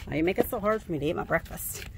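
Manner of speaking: whiny dog voice. Acted. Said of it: "It's like".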